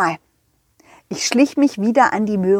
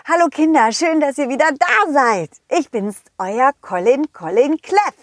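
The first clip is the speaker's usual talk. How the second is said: alberner Clown. Acted. Hund begrüßt Kinder fröhlich.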